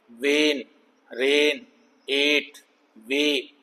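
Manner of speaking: "वेन, रेन, एट, वे" as separate drawn long-A words. Shown as a demonstration. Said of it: "long ए".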